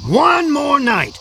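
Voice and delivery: drawn out and slow; slow drawn-out repeat. Retold or imitated. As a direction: stretch the second take out slowly. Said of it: "you always say".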